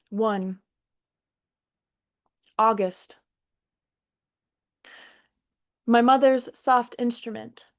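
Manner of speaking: measured, deliberate poetry delivery; unhurried poet's cadence; poem reading. Acted. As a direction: recite it line by line, pausing after each image. Reads second poem aloud.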